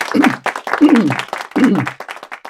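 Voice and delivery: a slow, choked clearing of the throat. Real, not acted. Host, moved by the reading, clears their throat. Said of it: "Sorry, I'm all choked up".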